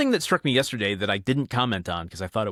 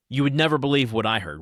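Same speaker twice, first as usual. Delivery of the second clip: gossipy; 4 semitones higher, 4 dB louder, faster than usual. Retold or imitated. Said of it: "It's like a gossipy thing".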